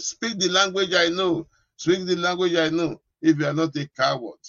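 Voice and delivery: Satan's challenge. Acted. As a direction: raise the pitch for the devil's demand. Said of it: "Don't let Satan deceive you".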